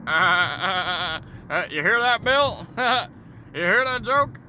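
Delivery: high-pitched cartoon American, chuckling at own joke; high mock American voice. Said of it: "Why do Americans talk like this".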